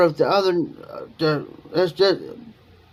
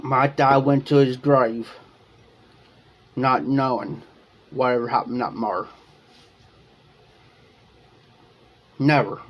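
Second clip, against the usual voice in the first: sad; 3 semitones lower than usual. Real, not acted. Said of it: "here's the sad part".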